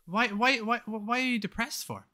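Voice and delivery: high-pitched, stammering disbelief; incredulous questioning. Retold or imitated. Asking the self-pitying cheater why she's depressed, incredulous. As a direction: question it as if it makes no sense. Retold incredulous reply to friend.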